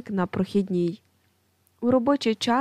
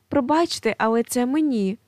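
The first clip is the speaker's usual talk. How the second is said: exclaiming; 3 semitones higher than usual. Acted. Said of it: "вигукує другий стіл".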